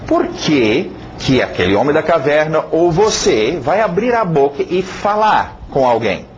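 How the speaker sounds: normal talking voice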